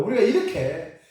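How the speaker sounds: ordinary delivery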